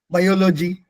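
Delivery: biology as evenly weighted bio-lo-jee; Indian mispronunciation. Shown as a demonstration. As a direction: demonstrate biology with regional Indian rhythm. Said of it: "that mispronunciation helps us identify".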